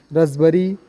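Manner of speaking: रसबरी said razberi, the p silent; correct pronunciation. Shown as a demonstration. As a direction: say रसबरी, gliding from s to b without a p. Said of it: "रसबरी ही पढ़ते हैं उसको हम".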